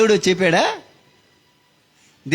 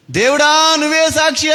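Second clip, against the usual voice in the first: dying plea; 10 semitones higher than usual. Retold or imitated. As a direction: call on God as witness with last breath. Repeats the dying man's cry. (చనిపోతున్న తమ్ముడి ఎత్తైన మొర)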